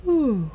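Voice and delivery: high-starting acted yawn; put-on bedtime yawn; yawning sigh. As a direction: let out a sleepy breath. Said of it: "said Daddy with a yawn".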